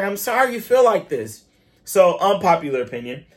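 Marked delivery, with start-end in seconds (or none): 0.0-1.4 high, prim mock apology; hammed-up condescending Karen. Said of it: "she's like".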